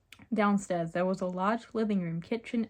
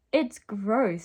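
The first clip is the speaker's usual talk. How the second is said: a louder, mildly disgusted remark; 2 semitones higher, 6 dB louder than usual. Acted. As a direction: voice it with a touch of disgust. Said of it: "Sophie said in disgust".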